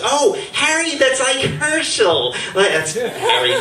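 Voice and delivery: a hint of a pleased old mother. Mother approving of the name Harry, lightly voiced and pleased. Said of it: "And the mother goes".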